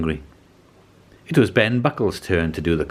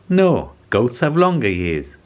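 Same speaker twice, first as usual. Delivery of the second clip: mouse voice; 4 semitones higher, 3 dB louder, slower than usual. Acted. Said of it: "said the mouse".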